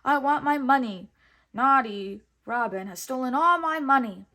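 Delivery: loud hammed-up whining; whiny dummy prince. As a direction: whine like a spoilt child. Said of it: "cried the dummy of Prince John".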